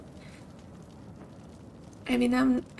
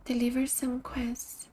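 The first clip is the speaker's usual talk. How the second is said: slow whispered aside to herself; a soft slow whisper; 7 dB quieter, slower than usual. Real, not acted. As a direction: whisper the choice, slowly. Quiet aside while choosing dialogue.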